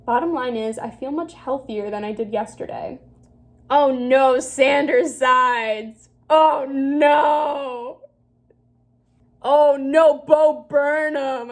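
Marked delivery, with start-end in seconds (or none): 3.7-8.0 embarrassed groan. Real, not acted. Cringing at old interests. 9.4-11.5 embarrassed groan. Real, not acted. Cringing at old interests.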